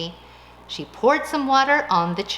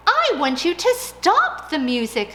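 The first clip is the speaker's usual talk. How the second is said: demanding mouse; 7 semitones higher, 6 dB louder than usual. Acted.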